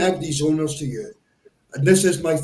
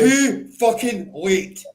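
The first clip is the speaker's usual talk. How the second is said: slow angry rant; slower than usual. Real, not acted. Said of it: "that's my rant over".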